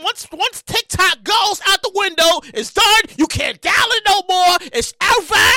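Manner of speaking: shouting, slow and emphatic; loud rant. Real, not acted. Podcast host shouting his prediction to listeners. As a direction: declare it like a prophecy. Ranting prediction about TikTok.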